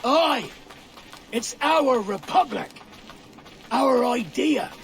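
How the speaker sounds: fiery declaration to a doubting friend; passionate shout. Acted. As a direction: shout it like a rebel's creed. Heated argument over Nassau.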